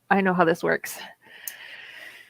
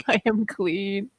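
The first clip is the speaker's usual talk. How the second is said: blissful; 4 semitones higher, slower than usual. Retold or imitated. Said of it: "comes out in such a better mood".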